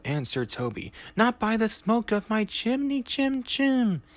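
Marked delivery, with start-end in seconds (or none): 1.2-4.0 hammed-up defiance. A narrator's reading. Toby mocks the ghost's rhyme.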